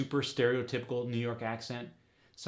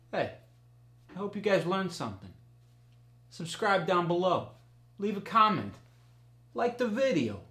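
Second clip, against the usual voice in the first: excited; 8 semitones higher, 3 dB louder than usual. Real, not acted. Upbeat outro.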